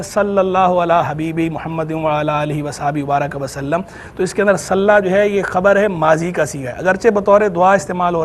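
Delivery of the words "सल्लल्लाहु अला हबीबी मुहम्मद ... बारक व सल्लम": Arabic prayer recited in an even line; durood recitation. Shown as a demonstration. Scholar showing another durood form, recited evenly. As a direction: recite it as one continuous formula. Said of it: "जब यूँ पढ़ा जाता है".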